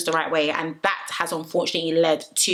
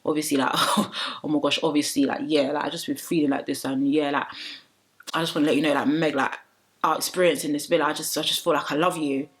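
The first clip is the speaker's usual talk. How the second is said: lower, lightly voiced mock declaration of love; imitating Dejon; 4 semitones lower than usual. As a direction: play Dejon confessing, pitched lower. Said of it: "Dejon's just like".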